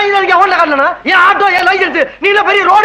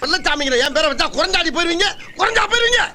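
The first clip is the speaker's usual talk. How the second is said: much softer hushed scolding; hushed argument; 7 dB quieter than usual. Acted. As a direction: argue under your breath. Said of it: "மெதுவா பேசுங்க". (மாமனாருக்குக் கேட்காமல் மனைவியைத் திட்டுதல், தாழ்ந்த குரல்)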